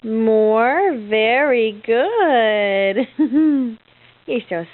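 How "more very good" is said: put-on stretched out slowly for baby; slow coaching. Shown as a demonstration. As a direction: say it slowly so she copies.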